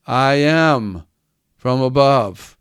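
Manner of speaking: "I am" set apart by a pause; emphasis on "I am". Retold or imitated. Preacher quoting Jesus to the Jews, stressing "I am". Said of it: "He emphasis, there's an emphasis".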